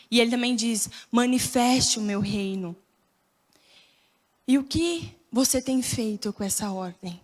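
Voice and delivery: low, measured sermon voice; earnest preaching. Acted.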